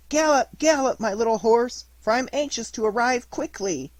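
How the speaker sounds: high, loud, joyful cry to ride; joyful exclamation. Acted. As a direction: urge your little horse on with glee. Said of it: "he exclaimed joyfully".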